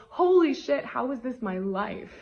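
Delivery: hammed-up thrilled gasp of wonder; amazed exclamation. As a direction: blurt out delighted disbelief. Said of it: "makes us go".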